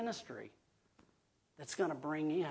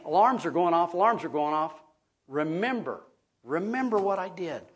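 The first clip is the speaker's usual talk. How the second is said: urgent preaching, much louder; emphatic alarm; 3 semitones higher, 9 dB louder than usual. Retold or imitated. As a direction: sound the alarm to the elders. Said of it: "This alert is emphatic".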